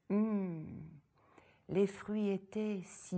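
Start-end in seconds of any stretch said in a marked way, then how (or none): 0.1-0.9 savouring hum. Acted. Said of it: "La petite se régalait".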